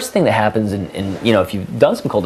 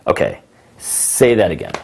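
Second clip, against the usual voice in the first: mock disbelief. Shown as a demonstration. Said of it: "what I would call "wait a second".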